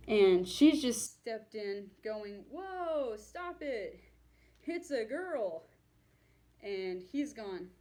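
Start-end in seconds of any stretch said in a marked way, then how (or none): 2.5-5.7 higher-pitched retold protest; mock alarmed cry, pitched up; alarmed intervention. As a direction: act out stepping in to break up a fight. Girlfriend stepping in to stop fight.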